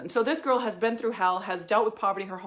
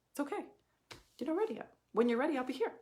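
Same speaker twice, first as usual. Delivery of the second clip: whispered, tender reassurance; soft whisper; 4 semitones higher, 6 dB quieter, faster than usual. Real, not acted. Coach gently telling an unready client she'll wait, whispering. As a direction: whisper it like a promise.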